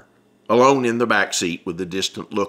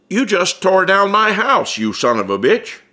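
grinning with an edge; 9 semitones higher, 4 dB louder than usual. Acted. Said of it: "not really angry, but there is a serious edge in his voice".

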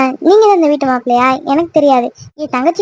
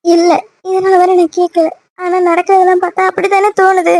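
higher, weepy doubt; tearful; 5 semitones higher than usual. Acted. Girlfriend doubting her boyfriend's love, tearful. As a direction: answer through tears, still hurt. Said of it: "அழுதுட்டு இருந்தா நான் என்னடி பண்ண முடியும்".

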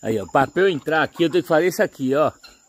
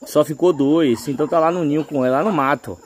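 normal talking voice

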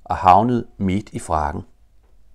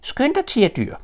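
very high joey voice calling up the tree. Acted. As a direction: urge him on, high and eager. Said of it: "råbte han".

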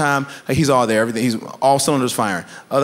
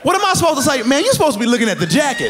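exasperated shout; 12 semitones higher than usual. Retold or imitated. Punchline shouted.

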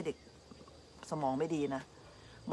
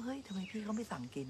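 puzzled inner thought; 4 semitones higher, 10 dB quieter than usual. Retold or imitated. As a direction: murmur your disbelief to yourself. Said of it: "ก็เลยคิดว่า". (คิดในใจอย่างงงๆ เบาและช้า)

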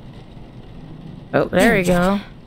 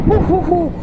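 high whooping; 9 semitones higher than usual. Real, not acted. Exclaims while playing a ghost game.

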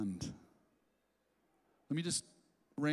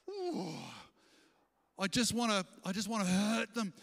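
vengeful inner voice; 3 semitones higher than usual. Retold or imitated. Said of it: "into your heart comes this".

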